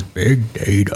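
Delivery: half-laughing announcer boom; big deep voice. Pretend. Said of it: "some big, deep voice".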